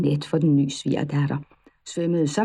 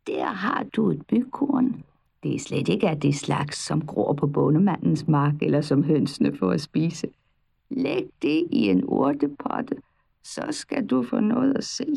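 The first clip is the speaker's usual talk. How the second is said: witch voice. Acted. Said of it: "sagde heksen".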